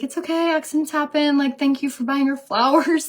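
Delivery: high, bright it's okay; gracious reassurance. Retold or imitated. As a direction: reassure the other mom kindly.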